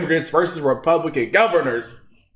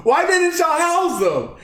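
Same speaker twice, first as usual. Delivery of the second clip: laughing repeat; 9 semitones higher than usual. Real, not acted. Vlogger mocking the island residents, laughing incredulously. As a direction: let the laugh break in as you ask it.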